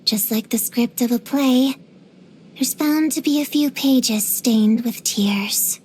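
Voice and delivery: grave, poetic delivery; theatrical lament. Acted. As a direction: declaim it like a tragic monologue. Theatrical lament about life's sorrows.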